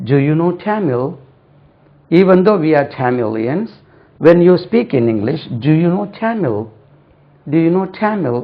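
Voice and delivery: Tamil said "TAM-il", with a plain l; slow model English sentences, Tamil anglicised; English-style Tamil. Shown as a demonstration. Teacher models how to say it in English, slow careful pronunciation. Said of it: "அப்படி தான் உச்சரிக்கணும்".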